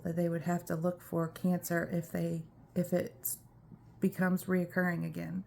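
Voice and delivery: breathless, fading quietly; out of breath. Real, not acted. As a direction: talk while short of breath. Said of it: "I'm out of breath".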